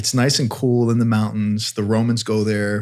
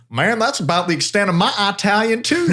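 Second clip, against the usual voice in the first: monk's reply; 10 semitones higher than usual. Retold or imitated. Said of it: "he's like".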